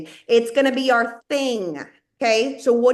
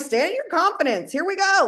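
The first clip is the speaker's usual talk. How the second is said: retold pep talk; 7 semitones higher than usual.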